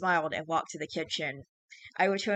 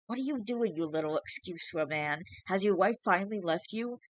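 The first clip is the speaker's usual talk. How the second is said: shrieking changeling; 3 semitones higher than usual. Acted. Changeling mocking the father, in a shrill shriek. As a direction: spit it out like a spiteful fae. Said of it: "it shrieked".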